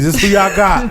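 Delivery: high laughing mockery; cracking up while teasing. Real, not acted.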